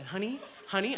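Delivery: softly coaxing "Honey, honey"; gentle, soft. Retold or imitated. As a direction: ease into it, very gentle with your partner. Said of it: "very gentle".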